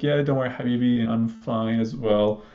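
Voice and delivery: unhurried and soothing; calming her down. Retold or imitated. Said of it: "And I calm her down as well".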